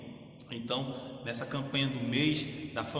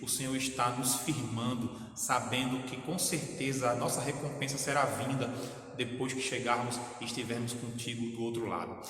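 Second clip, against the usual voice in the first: fervent pastor's prayer, swelling on each Pai; closing prayer. Acted. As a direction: pray for the sick and grieving, rising with feeling. (oração fervorosa de pastor)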